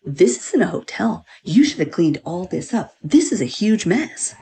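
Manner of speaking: slow, scolding mock lecture; scolding cleaning lady. Cleaning lady scolding guests over the mess, mock scolding. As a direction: drag it out like an offended cleaner. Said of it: "And she's like".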